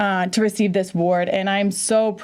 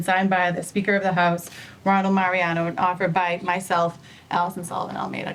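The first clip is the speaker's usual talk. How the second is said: usual speaking voice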